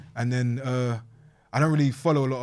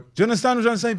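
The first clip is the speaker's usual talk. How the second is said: laughing rant; 8 semitones higher, 7 dB louder than usual. Real, not acted. Laughing while ranting about callers.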